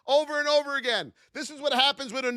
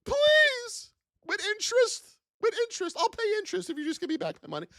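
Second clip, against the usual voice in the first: much higher, whiny pleading; begging caller; 12 semitones higher than usual. Pretend. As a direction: beg for your money back. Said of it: "thought about calling your broker".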